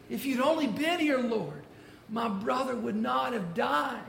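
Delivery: a hint of a sister's despair, pleading; grieving Martha. Martha pleading with Jesus over her dead brother, a touch of grief.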